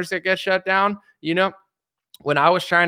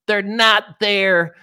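high, slow mock conspiracy preacher; mocking Simon Parks; 4 semitones higher than usual. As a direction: ham up a self-sure guru. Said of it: "he's like".

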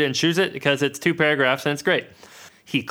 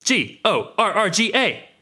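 monster roar; 7 semitones higher than usual. Acted. Monster noise read from book.

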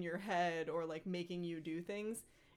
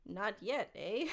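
lightly theatrical demand easing into doubt; mildly stagey creature backing down; Gollum, hesitating; 3 semitones higher than usual. Acted. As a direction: start insistent, then hesitate with long pauses. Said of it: "a theatrical voice".

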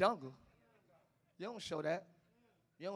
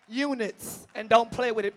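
usual speaking voice

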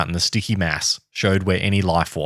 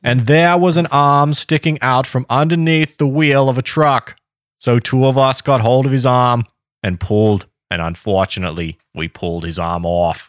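put-on Boston accent; 3 semitones higher, 3 dB louder than usual. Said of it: "it's just your J F K accent".

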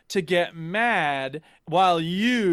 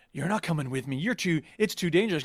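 retold stern refusal; 5 semitones lower, 5 dB quieter than usual. Character forbids friend to come.

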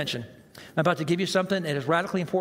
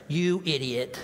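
inner irritated retort. Retold or imitated. Preacher voices the inner reply to a well-meaning friend, exasperated. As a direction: let the inner annoyance out. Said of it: "what are you saying on the inside".

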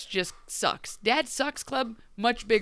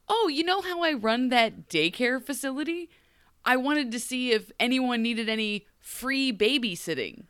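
a hint of perky, higher-pitched offer; lightly imitated Cinderella; 5 semitones higher than usual. Cinderella offering free babysitting, lightly mimicked chirpiness.

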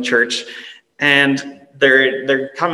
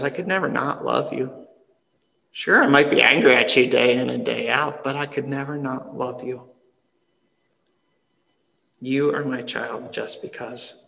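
tender parent. Retold or imitated. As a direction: murmur it like a parent soothing their child. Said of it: "a parent looks at their child and says".

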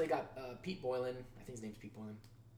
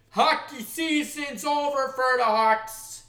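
mock mournful; 8 semitones higher, 9 dB louder, much slower than usual. Mock lament over the Hawks.

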